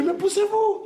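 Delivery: high, loud yell to get free; frantic shout. Retold or imitated. Father held down by family, high frantic shout. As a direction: bark at them to let go. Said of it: "crise de paranoïa".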